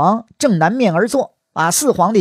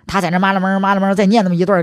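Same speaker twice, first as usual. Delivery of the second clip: mock incantation; 2 semitones higher, faster than usual. Mimics a muttered secret curse.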